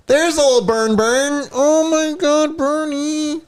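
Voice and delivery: high squealing coo over a pet. Real, not acted. Cooing over the cat.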